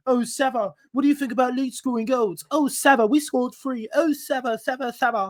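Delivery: mildly whiny mockery of a co-host pestering for attention; mock moaning. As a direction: lightly imitate a needy moaner. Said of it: "normal accent of you moaning".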